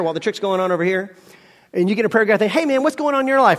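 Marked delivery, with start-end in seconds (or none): 2.5-3.6 higher-pitched, chummy question; friendly asker. Acted. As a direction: play the interested friend checking in. Acted friend asking at prayer group.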